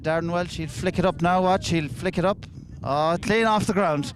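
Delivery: rising, eager play-by-play; excited commentary. Real, not acted. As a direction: build the anticipation.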